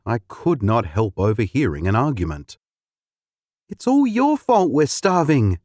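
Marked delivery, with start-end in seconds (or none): 3.7-5.6 higher, upset wife's complaint; distressed woman. A narrator's reading. Wife blaming her husband for hunger, distressed. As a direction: blame him in a strained, distressed voice. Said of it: "said a distressed woman".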